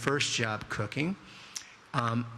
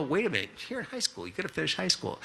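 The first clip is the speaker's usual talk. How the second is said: quick, higher-pitched objection; urgent protest; 5 semitones higher, faster than usual. Retold or imitated. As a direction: cut in fast with a mock-alarmed scolding. Retold protest to younger girlfriend.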